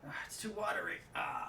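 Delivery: talking around a brush in mouth; words muffled by a brush held in teeth. Real, not acted. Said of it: "that's why I sound like I'm chewing on something".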